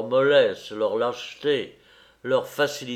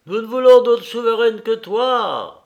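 much higher, loud shout of acclamation; crowd's acclaiming cry; 10 semitones higher, 9 dB louder than usual. A narrator's reading. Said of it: "s'écria la foule d'un seul voix".

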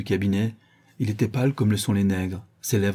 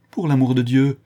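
louder, higher entreaty; pleading; 4 semitones higher, 6 dB louder than usual. Acted. Schoolmaster begging his judge, pleading. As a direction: beg for mercy. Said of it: "d'un air suppliant".

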